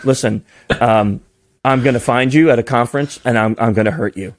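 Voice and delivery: low, level and deadly serious threat. Retold or imitated. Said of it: "like, dead serious".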